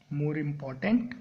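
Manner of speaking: drawn-out, teacher-style stress on important; drawn out for the class; slow and careful. Shown as a demonstration. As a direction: say it slowly so students catch it. Teacher spells out the form slowly.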